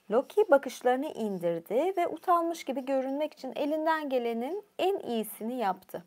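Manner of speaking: ordinary delivery, nothing marked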